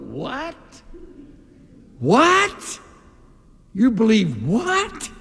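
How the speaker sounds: rising, incredulous double what; mock disbelief. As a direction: act stunned at such a belief. Imagined shocked group reply.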